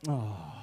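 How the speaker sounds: low "oh" sigh; imitated sigh. Comic copying someone in the fourth row, low sigh. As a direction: let out a low mimicked sigh. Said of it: "somebody in the fourth row that just went".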